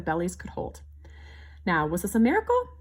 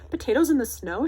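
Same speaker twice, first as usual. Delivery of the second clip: higher, louder surprised shout; shouting in surprise; 5 semitones higher, 6 dB louder than usual. A narrator's reading. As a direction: call out in disbelief. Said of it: "shouted Mama".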